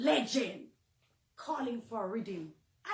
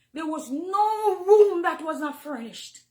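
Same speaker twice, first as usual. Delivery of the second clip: loud, slow, voice breaking in tears; crying; 4 semitones higher, 10 dB louder, slower than usual. Real, not acted. Woman reminding the singer she took her in, crying loudly. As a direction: push it out through real sobs.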